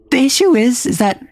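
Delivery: high voice climbing into falsetto. Shown as a demonstration. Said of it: "the highest I can do consistently".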